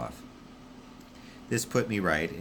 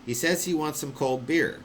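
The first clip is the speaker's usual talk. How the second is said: higher voice passing on nonsense; puzzled relay; 9 semitones higher, 3 dB louder than usual. Acted. Wish relaying to Constant, higher and baffled.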